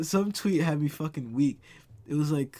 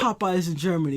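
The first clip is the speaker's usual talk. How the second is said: loud, raised-pitch excitement; amazed outburst; 5 semitones higher, 7 dB louder than usual. Real, not acted. Checking on Popeyes for a friend, excited outburst. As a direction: burst out with a thrilling find. Finds Popeyes in Germany, astonished.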